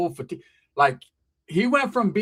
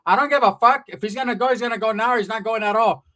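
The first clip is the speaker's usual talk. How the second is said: raised-pitch, impatient rant; fed-up aunt; 4 semitones higher, 3 dB louder than usual. Acted. Aunt refusing to keep her son till later, fed up. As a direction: insist like an aunt who has had enough.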